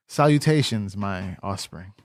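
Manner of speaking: lightly British, grandly formal greeting; mock-British formality, dropping low at the end. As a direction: put on a hint of British pomp. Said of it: "talking to me in British".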